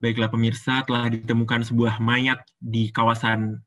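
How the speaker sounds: low newsreader voice with gentle rise and fall; low-pitched, measured bulletin delivery; news anchor. Shown as a demonstration. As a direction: read the news in a low register. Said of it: "Ngambilnya nada bawah".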